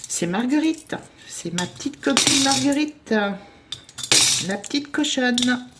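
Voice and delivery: showing her piggy bank to viewers, fond and cooing; cutesy fond voice. Real, not acted. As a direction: coo over the little pig like a pet. Presenting her beloved piggy bank.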